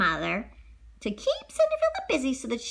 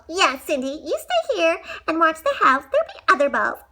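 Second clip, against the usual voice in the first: loud mocking; 7 semitones higher, 6 dB louder than usual. Stepsister taunting, laughing.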